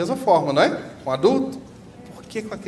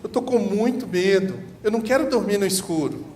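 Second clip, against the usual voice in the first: put-on a scared boy pleading with his father; crying boy; 6 semitones higher than usual. Boy telling his father he fears the dark, mild mock crying.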